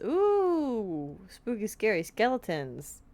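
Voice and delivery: high playful spooky ooh; mock spooky. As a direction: tease like a ghost story.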